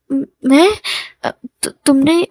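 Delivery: halting, tongue-tied reply; flustered stammer. Acted. Shy man answering his teasing sweetheart about a kiss, flustered stammer. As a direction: stumble over the first sounds, mildly nervous.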